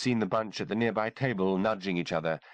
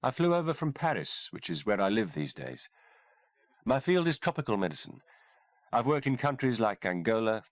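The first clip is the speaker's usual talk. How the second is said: higher, poised woman's voice; composed, a touch amused; lightly voiced doctor; 3 semitones higher than usual. Kimberly tells the sergeant where she was born, lightly voiced woman. Kimberly explains her mission.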